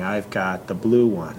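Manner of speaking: put-on slow, calm statement for a child; slow modeled statement. Parent modeling slow easy speech to a toddler. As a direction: model it slowly and evenly. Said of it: "communication pattern there by saying".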